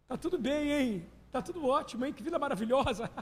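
high, mock-cheery voice; mock someone pretending all is fine; fake cheerful mock. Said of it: "alguém quer assim". (imitação debochada e aguda de alegria falsa)

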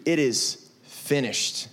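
It is finished, drawn out slow and soft; slow solemn stress. Shown as a demonstration. Pastor to students, slow and hushed. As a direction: lay each word down slowly. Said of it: "It's not done, it's finished".

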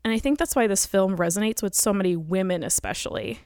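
breathless, rushing through words; out of breath while talking. Real, not acted. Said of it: "I'm out of breath because I'm pregnant".

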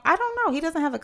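high giggly aside; laughing while talking. Real, not acted. Laughing after exaggerating.

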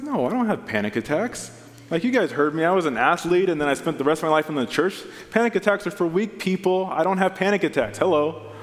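hammed-up macho protest; mock indignant denial. Pastor mocking his own denial to the congregation, mock indignant.

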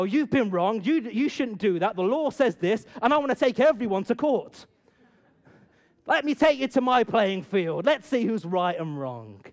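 loud, indignant lawyer rant; inner lawyer. Retold or imitated. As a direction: argue it like an angry lawyer in court. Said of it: "the lawyer can rise up in me and go".

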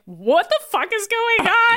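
high baffled outburst; mock confused. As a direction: react like nothing makes sense. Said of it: "it's like".

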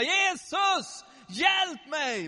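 high, loud cry for help; desperate shouting. Acted. Blind beggar calling Jesus through the bustle, loud desperate shout. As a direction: holler over a noisy crowd. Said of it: "så han började ropa".

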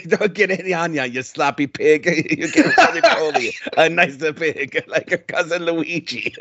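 put-on half-laughing angry Italian accent; lightly voiced Italian rant; mock angry Italian. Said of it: "he starts getting angry again".

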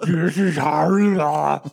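laughing. Real, not acted. Laughing at the joke.

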